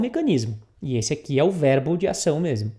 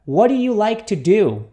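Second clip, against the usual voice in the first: joined-up, a bit less slow question; repeat-after-me model; 2 semitones higher, 4 dB louder than usual. Shown as a demonstration. Teacher has students repeat it, connected and measured. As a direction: say it firmly as one connected phrase.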